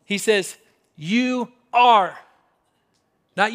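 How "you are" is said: "You are" with a firm, louder ARE; emphatic stress. Acted. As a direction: separate "You are" and land hard on "are". Emphatic quote set against "might be.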